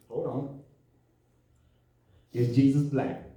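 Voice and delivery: low, hushed pondering; quietly thoughtful, hammed-up; mock deliberation. Acting out careful reply to congregation.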